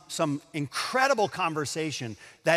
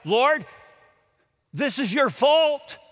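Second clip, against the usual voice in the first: sobbing accusation; 7 semitones higher, 5 dB louder, slower than usual. Retold or imitated. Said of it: "in the sobs of her voice".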